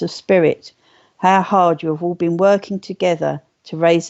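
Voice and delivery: formal, evenly measured read-aloud with pauses between phrases; solemn message reading. Acted. Medium reading Spirit's message of love to her viewers, solemn reading. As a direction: read it out like a blessing to the gathered listeners.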